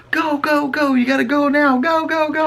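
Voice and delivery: high, urgent mock panic; rushed high-pitched panic; frantic urging. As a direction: hurry him, go go go. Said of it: "she goes".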